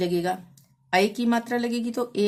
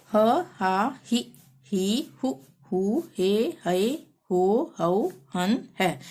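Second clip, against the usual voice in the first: measured sing-song letter chanting; syllable drill recitation; slower than usual. Shown as a demonstration. Teacher reciting Hindi syllables for learners, sing-song drill. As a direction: recite each syllable separately with a lilt.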